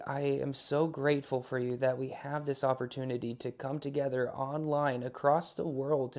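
even, hushed praying voice; sincere prayer. Real, not acted. Preacher opens the online message in prayer, sincere and subdued. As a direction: pray earnestly and gently, pitch kept level.

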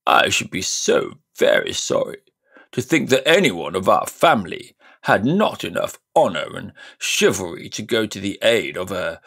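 lightly pompous, condescending uncle; high and mighty. Acted. Uncle shaming the nephew, mildly high and mighty. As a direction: talk down like a benefactor. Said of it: "in a very high and mighty voice".

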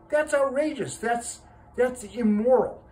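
high, loud, sputtering indignation; outraged. Acted. Father outraged at son's sale.

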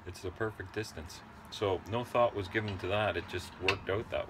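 talking around pipe stem; pipe in mouth. Real, not acted. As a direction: teeth clenched on stem. Seen 1: Long pipe stem held between teeth while talking; smoke visible.

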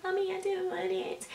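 put-on high, soft, prim little girl voice; proper little girl. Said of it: "she spoke so proper".

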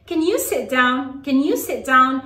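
slow, evenly spaced teaching delivery; slow model phrase. Shown as a demonstration. Teacher models classroom instructions for children, slowly and deliberately. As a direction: model it slowly for learners to copy.

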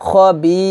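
খবি with short খ and long "bee"; middle vowel stretched. Shown as a demonstration. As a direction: hold the বি of খবি. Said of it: "এভাবে টান হবে".

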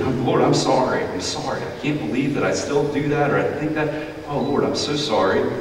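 gentle, contrite confession; sincere humble prayer. Acted. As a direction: pray like someone truly sorry. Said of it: "Humble's like".

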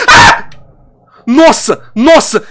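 jump-scare shock; startled cries. Real, not acted. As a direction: react to a sudden scare.

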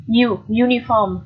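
"U, uniform" slowly, U as you; "uniform" slowed, opening on a clear you; pronunciation demo. Shown as a demonstration. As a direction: model the yu sound, then "uniform". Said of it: "Chữ U ở đây được phát âm là âm U".

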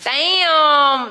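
usual speaking voice

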